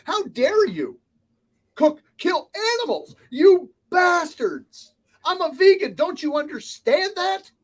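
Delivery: high, loud hammed-up tirade, slowing on bastards; mock vegan outrage. Imitating a furious vegan customer yelling at the kitchen, hammed-up shout. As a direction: play an outraged customer scolding the cook.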